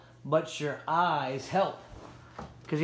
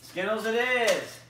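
drawn-out announcement; 5 semitones higher, slower than usual. Real, not acted. Host announces correct guess.

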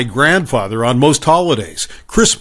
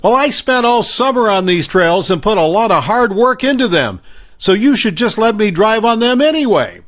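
put-on snobby kid voice; 6 semitones higher than usual. Kid argues back, same voice.

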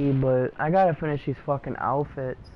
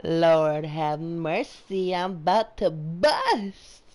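slow try at Zay's delivery; slower than usual. Shown as a demonstration. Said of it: "I'm gonna try it again".

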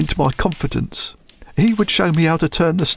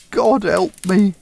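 despairing plea; slower than usual. Acted. Thief breaks down in despair.

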